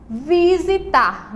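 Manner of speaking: "visitar" stretched out slowly, syllable by syllable; slow and clear. Shown as a demonstration. Teacher to children, drawing out "visitar" slowly. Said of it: "a gente tem a palavra".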